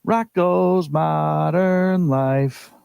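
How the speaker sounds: "Rocco's Modern Life" stretched out very slowly; drawn-out title. Pretend.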